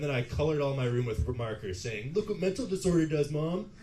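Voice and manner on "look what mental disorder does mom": higher-pitched taunting boast; acted child's spiteful show-off; mock defiance. Six-year-old showing mom the colored room, mock defiant.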